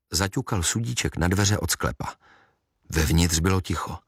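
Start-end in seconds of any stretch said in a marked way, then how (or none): none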